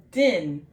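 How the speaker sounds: DIN as one short syllable with an 'ih' vowel. Shown as a demonstration. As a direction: say DIN in a single beat. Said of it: "one syllable".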